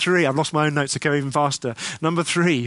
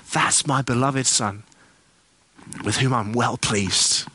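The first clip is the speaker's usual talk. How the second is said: slow and lower, a gently voiced proud father; tender Father's blessing; 4 semitones lower, slower than usual. The Father blessing his Son at baptism, slow, low and tender. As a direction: give the blessing slowly, like a loving dad. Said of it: "the Father says these wonderful words".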